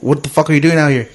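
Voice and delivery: casual, toned-down cop question; chilled. Retold or imitated. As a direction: ask it like a cop who has calmed down.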